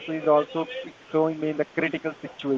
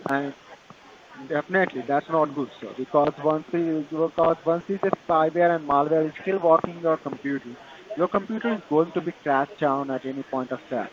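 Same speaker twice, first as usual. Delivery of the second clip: Indian call center. Real, not acted. Tech support scam call agent.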